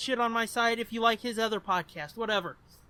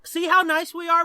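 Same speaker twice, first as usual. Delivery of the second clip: mock smug; 7 semitones higher, 5 dB louder than usual. Ironic boast to listeners.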